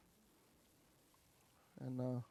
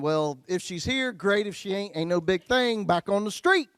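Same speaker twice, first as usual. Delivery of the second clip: swaggering; 4 semitones higher, 4 dB louder than usual. Retold or imitated. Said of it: "I'm going".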